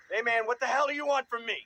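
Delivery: high, loud panicked plea; alarmed, near-crying shout; frightened demand. Acted. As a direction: confront the stalker, scared out of your wits. Boy confronts menacing clown in fear.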